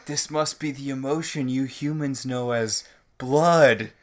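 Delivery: hammed-up alien puzzling over humans; mock alien monarch. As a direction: drag it out grandly like an alien ruler. Parodying the alien monarch's speech.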